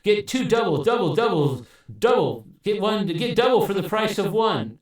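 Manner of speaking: two voices in one; doubling effect thickening every word; doubled voice. Shown as a demonstration. Demonstrating the double preset to viewers, voice sounding doubled. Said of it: "Double makes you sound like you're doubled".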